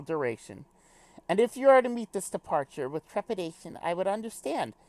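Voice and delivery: formal speech, lightly British; little British accent. Acted. Character reassures friend before a departure, lightly British formal voice. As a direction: give a stately pep talk with a hint of British. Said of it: "do a little British accent".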